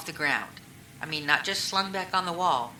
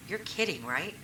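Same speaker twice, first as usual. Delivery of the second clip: stunned disbelief; 3 semitones higher than usual. Retold or imitated. Hearing news of death.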